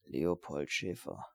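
slow, low murmur to himself. Acted. Steiner reading the name to himself, murmured low and slow. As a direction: mutter the name slowly under his breath. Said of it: "murmelte er".

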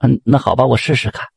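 hesitant, resigned yes; reluctant consent. Acted. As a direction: give in with a touch of reluctance. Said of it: "菊花被磨得没办法了".

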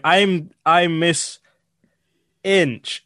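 slow, halting imitated introduction; reading off notes. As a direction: stumble slowly, pausing before the name. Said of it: "she was just reading off these notes".

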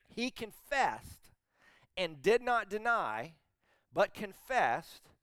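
slow, loud, spaced-out scripture reading; emphatic and clear. Acted. Preacher reading John's confession to the congregation, emphatic. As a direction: land hard on CONFESSED and DENY, pausing after each phrase. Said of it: "he emphatically and clearly makes this confession".

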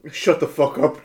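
understated angry Dumbledore; mild cry. Acted. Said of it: "Dumbledore cried".

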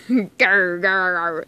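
slow, mild growled grr; a half-hearted growl; mock growl. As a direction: grr like an annoyed cat. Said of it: "A growl escaped Lance".

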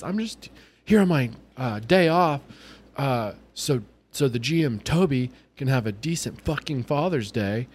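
high-pitched mock upset; imitated near-tears. Drive-through woman complaining about her day off, mock tearful upset. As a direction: act out her holding back tears, starting high. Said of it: "tears are welling up in her".

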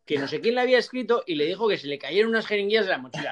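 hammed-up hearsay, mocking the rumour; lightly acted tall-tale teller; mock gossip voice.

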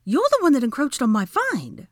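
high, loud accusation; thrown-back retort. A narrator's reading. Hermione blaming Draco for encroaching, sharp retort. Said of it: "Hermione threw back".

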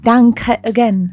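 put-on Swiss accent. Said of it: "I said it like in a Swiss accent".

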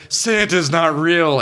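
put-on slow, high, dazed little kid; sobbing kid. Vomit-covered kid telling the player, slow and dazed. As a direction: say it slowly like a shattered child. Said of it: "he's like".

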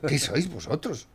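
voiced again, slowed and deliberate; slow accusing question; slow scornful repeat. Real, not acted. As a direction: repeat it aloud, slowly, with contempt.

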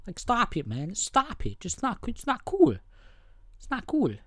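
high pitched whine of stop it; imitating Bobby scolding in a high whine; mock whiny pleading. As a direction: whine it like a nagging kid.

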